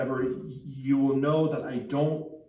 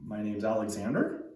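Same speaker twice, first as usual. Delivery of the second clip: lower, tentative reply with rising end; unsure boy; 4 semitones lower than usual. Retold or imitated. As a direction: answer as if unsure of it. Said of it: "And the boy says".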